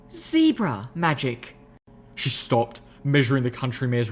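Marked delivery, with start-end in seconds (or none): 0.1-1.6 slow, ominous lady's voice; ominous reveal. Acted. Rarity revealing zebra magic, slow ominous voice. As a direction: drop it slowly like a secret.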